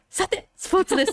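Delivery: sudden jump to very high, bright TV announcer voice. Mimicking an announcer changing topic: imitating an announcer's tone jumping up. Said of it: "今満面の笑顔になって声のトーンがクッと上がってスポーツを伝える".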